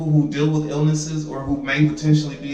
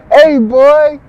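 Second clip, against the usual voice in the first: loud greeting; 10 semitones higher, 10 dB louder, much slower than usual. Real, not acted. Greeting friend loudly.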